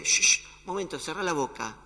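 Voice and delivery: sharp, loud whispered shush, then firm. Acted. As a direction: hush the storm forcefully. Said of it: "el que está con vos en la barca dice". (chistido fuerte y firme)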